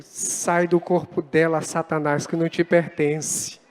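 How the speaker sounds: rebuking the devil. Retold or imitated. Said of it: "eu digo".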